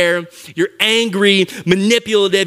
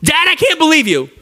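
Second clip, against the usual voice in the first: put-on whiny kid. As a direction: play the sulky kid whining at dad. Kid complaining to dad.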